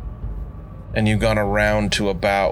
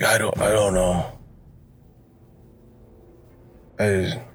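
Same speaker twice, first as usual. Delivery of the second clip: lightly voiced raspy beggar, slightly deeper; a hint of a mumbling old beggar; Breakman voice. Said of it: "his is a little bit deeper".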